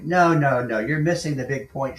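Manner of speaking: mock the boss pushing the point; insistent manager.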